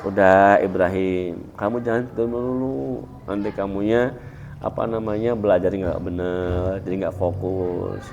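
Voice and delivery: soft, gentle teacher's advice; softly advising a sleepy student. Retold or imitated. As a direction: coax him kindly, no edge. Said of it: "nasihatnya enak, lembut".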